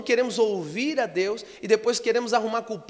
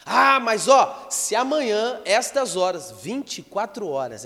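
loud, drawn-out threat, falling away; mock outrage with a loud, slow opening; indignant king; 2 semitones higher, 5 dB louder, slower than usual. Preacher acting the king's threat against Elisha, indignant. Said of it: "o rei tava tão revoltado".

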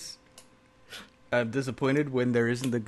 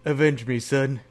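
overacted death scene; slower than usual. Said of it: "he's like".

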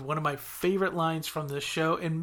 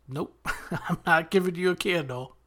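laughing through the quote; 3 semitones higher than usual. Retold or imitated. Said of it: "and he says".

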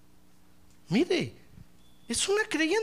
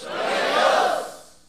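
breathy, voiceless echo; whispered reply; 6 dB louder, much slower than usual. Real, not acted. Congregation answering the preacher, whispered. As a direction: whisper it back. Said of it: "A ver, diga".

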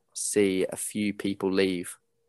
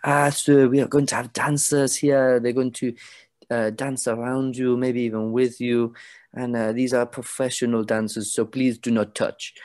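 lightly voiced showy announcer; a hint of a grand ringmaster; spokesperson announcer; 2 semitones higher than usual. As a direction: announce it to the crowd with a flourish.

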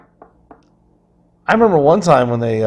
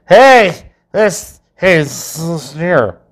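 put-on offended drunk; 4 semitones higher, 4 dB louder, much slower than usual. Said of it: "Someone's gonna be like".

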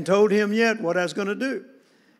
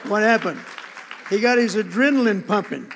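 louder and louder, driving the point home; rising preaching fervor; 3 semitones higher, 6 dB louder than usual. Real, not acted. Preacher to congregation on his father's revival, louder and louder. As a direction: build to a full-throated preaching climax.

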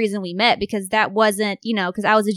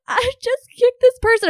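mock crying; 14 semitones higher, 3 dB louder than usual. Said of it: "I was crying in his arms".

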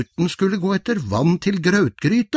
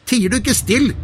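shouting; 9 semitones higher than usual. Acted. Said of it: "skrek han til trollet".

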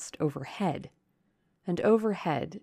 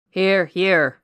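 shouted reply; 12 dB louder than usual. A narrator's reading. Rochester answering the alarmed guests, shouted reply. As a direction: call out firmly over the commotion. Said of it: "was shouted in return".

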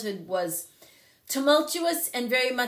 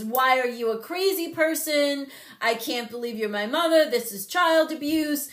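put-on higher and louder, indignant teen yelling; teen outburst; 6 semitones higher, 4 dB louder than usual. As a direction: hurl it at your mom like a wronged teenager.

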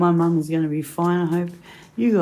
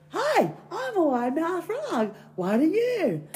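high, drawn-out frog voice; wide-mouthed frog; 11 semitones higher, slower than usual. Acted. Frog greeting a bird in a joke, high slow voice. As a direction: stretch it out as a big-mouthed frog. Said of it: "he goes".

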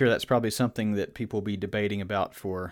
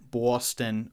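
slow, rough attempt at a Boston accent; badly drawn-out Boston accent on Boston; butchered Boston accent. Shown as a demonstration. Comparing accents in America, a butchered Boston accent. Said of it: "I probably butchered both of those".

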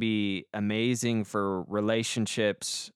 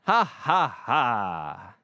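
forced laugh; much slower than usual. Acted. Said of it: "Laughter and fun".

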